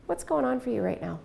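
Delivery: plain calm question; calm, even, no leaning in. Retold or imitated. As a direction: ask it simply, no change of tone. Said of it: "I said it just like that".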